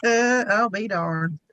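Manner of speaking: very slow drawled "I'll be darned"; Southern exclamation. Retold or imitated. Savouring her own Southern saying, slow drawl. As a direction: stretch out "I'll be darned" lazily. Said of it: "It's been a long time since I've said that".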